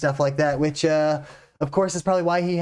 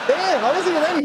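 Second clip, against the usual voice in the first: caught off guard; 11 semitones higher, 3 dB louder, faster than usual. Real, not acted. Reacting to a brutal joke.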